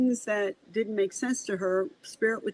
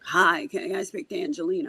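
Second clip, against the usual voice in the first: imitating a gravelly-voiced mother; lightly mimicked gravelly phone greeting. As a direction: put some gravel in it, as a caller. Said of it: "The mother had a very gravelly voice".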